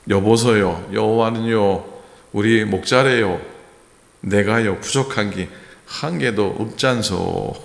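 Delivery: Psalm line recited in a light Gangwon dialect, playful; the pastor jokingly imitates a Gangwon villager. Pastor amusing the congregation in a mock Gangwon dialect. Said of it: "강원도 버전은 이렇게 한다고 합니다".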